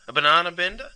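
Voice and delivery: high, mocking quiz rise on banana; quizzing the listener with a grin; teasing quiz question.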